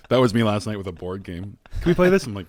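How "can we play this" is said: high, pleading child voice, imitating his daughter; mock whiny kid asking to play. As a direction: beg like a seven-year-old. Dad voicing daughter's board-game plea.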